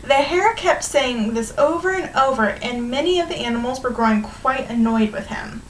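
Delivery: animated storybook reading to a class; measured read-aloud with stretched key words; story read-aloud. A narrator's reading. Teacher reading a fable to students, lively storytelling.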